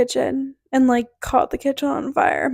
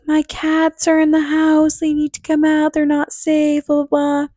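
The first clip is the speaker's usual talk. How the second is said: put-on frantic old lady; 4 semitones higher than usual. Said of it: "She's like".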